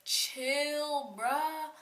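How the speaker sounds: high, drawn-out, exasperated plea; exasperated retort. Retold or imitated. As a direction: imitate telling someone shrieking to back off. Retold reply to the yelling roommate.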